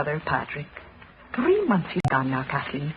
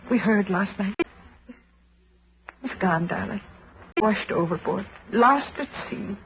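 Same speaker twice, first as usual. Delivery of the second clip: subdued, halting sorrow with pauses; acted grief; 2 semitones lower than usual. Molly tells Kathleen her brother drowned, subdued and grieving. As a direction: break the sad news in small pieces. Breaking news of brother's death.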